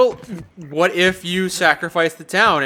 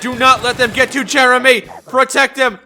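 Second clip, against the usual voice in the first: dramatic orders; 6 semitones higher, 4 dB louder than usual. Pretend. Dramatic orders to protect Jeremy.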